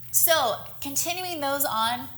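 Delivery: winded mid-workout; out of breath. Real, not acted. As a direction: talk while catching breath. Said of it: "I'm out of breath already".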